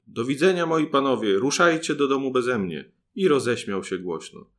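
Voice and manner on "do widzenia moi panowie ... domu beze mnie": loud, higher teasing shout; a boy mocks the fooled strangers from a hole, loud; calling out mockingly. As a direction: taunt them from the mouse hole. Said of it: "i zawołał stamtąd".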